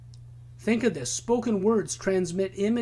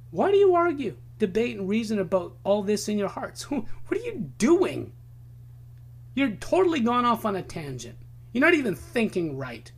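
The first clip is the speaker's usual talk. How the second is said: Jesus rebuking; faster than usual. Retold or imitated. Jesus challenging the arguing scribes, exasperated. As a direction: call out their muddled thinking.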